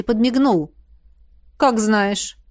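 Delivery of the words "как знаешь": холодно. Acted. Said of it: "холодно сказал Изергаст".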